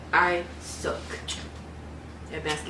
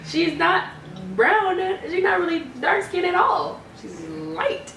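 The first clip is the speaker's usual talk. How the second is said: surprised realization; 6 semitones higher, slower than usual. Retold or imitated. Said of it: "and I was just like".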